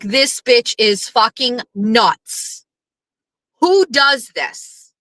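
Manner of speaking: slow, deliberate mock outrage; slow disbelief. Recalling her reaction to the copied photo, slowly. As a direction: spell out each word in disbelief.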